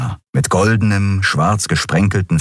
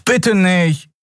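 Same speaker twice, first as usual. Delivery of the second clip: put-on much higher, begging young voice; pleading Miko; 12 semitones higher than usual. A narrator's reading. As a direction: beg her not to do it. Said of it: "flehte Miko".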